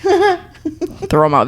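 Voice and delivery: very slow, laughing throw em out; drawn-out laughing plea. Real, not acted. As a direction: stretch it out, pleading through laughter. Repeated demand, drawn out laughing.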